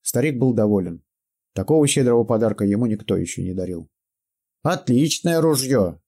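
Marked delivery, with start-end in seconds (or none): 4.6-6.0 put-on pleased old man. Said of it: "отметил Караед".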